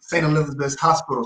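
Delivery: talking around new braces; words slightly fumbled by braces. Real, not acted. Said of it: "Sorry, I just got braces".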